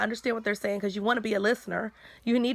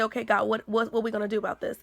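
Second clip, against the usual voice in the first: quick prayer. Retold or imitated. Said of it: "I go to God and say".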